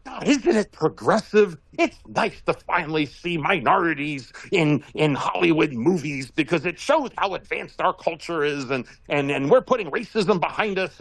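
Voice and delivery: lightly voiced, slowed, earnest preachiness; a hint of a smug progressive; poking fun at a woke viewer with gentle mock sincerity; mock wokester. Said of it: "be a nice wokester and go".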